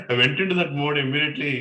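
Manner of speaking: laughing while telling it; amused laugh mid-sentence. Real, not acted. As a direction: talk through a real laugh. Laughing recalling the debate.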